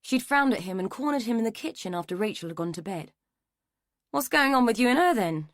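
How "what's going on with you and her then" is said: higher, louder accusing question; suspicious mother confronting her son; sharp demand. A narrator's reading. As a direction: demand an answer from your son. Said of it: "she had demanded".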